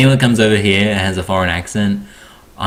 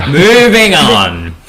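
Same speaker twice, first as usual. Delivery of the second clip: very slow, higher-pitched "moving on"; drawn-out deflection; 4 semitones higher, 4 dB louder, much slower than usual. Real, not acted. Host closing the crumpet tangent, drawn-out deflection. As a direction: stretch it out to shut the topic down. Cutting off an awkward topic.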